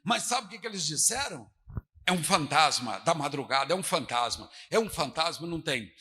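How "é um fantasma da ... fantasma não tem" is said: mock low ghost cry; a hint of spooky low voice; terrified disciples. Pastor mocking the disciples seeing a ghost, low eerie voice.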